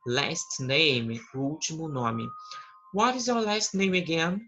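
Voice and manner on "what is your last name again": dialogue question. Acted. Teacher voices dialogue question.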